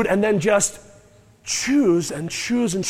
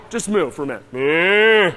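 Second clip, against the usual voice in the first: soft demo moo; 3 semitones lower than usual. Shown as a demonstration. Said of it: "Can you all moo?".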